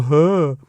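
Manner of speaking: imitated stunned huh; audible huh. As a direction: let out a dumbfounded little breath. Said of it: "I probably made an audible".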